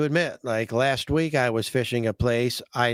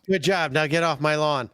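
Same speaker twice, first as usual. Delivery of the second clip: mock grumpy homeowner; 2 semitones higher than usual. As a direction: playfully shoo trespassers off. Joking as grumpy homeowner to anglers.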